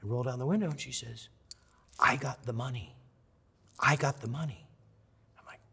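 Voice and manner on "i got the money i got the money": slightly raised, tearful mock voice; imitated tearful fan. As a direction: lightly act a crying fan's news. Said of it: "she's crying".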